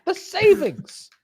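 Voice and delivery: put-on voice. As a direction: drag out in a silly voice. Odd drawn-out voice.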